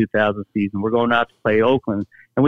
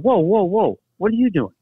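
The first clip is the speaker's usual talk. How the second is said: higher-pitched imitation of an outraged objection; mock indignant challenge; 8 semitones higher than usual. Veteran halting the kicker at first class, mock indignation. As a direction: stop him short in mock alarm.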